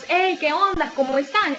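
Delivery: relaxed, informal hello like meeting your buddies; casual greeting to friends. Shown as a demonstration. Teacher showing how she greets friends, casual and relaxed. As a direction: drop the formal tone and greet pals loosely. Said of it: "nuestra entonación de voz cambia y decimos".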